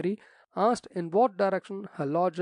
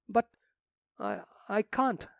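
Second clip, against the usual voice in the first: higher, slow faltering gasp; 6 semitones higher than usual. A narrator's reading. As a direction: falter out the refusal in shock. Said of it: "gasped the rector".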